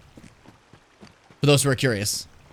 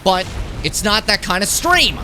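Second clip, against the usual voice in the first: exasperated protest; 6 semitones higher, slower than usual. Real, not acted. Protesting jokingly.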